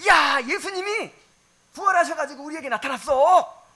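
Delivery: bursting to tell Thomas the news; excited disciple voice. Acted.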